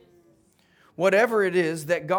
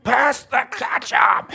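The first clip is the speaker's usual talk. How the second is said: loud, high, drawn-out shout; fed-up boy yelling across the table; hollered out; 9 semitones higher, 9 dB louder, slower than usual. Acted. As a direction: burst out in frustration, stretching each word. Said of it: "finally he just hollered out".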